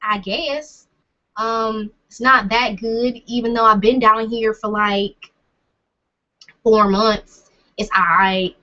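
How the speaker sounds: drawn-out Southern US accent. Shown as a demonstration. Showing a so-so Southern accent, slow Southern accent. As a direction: talk with a slow Southern twang. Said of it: "my Southern accent is kind of like that".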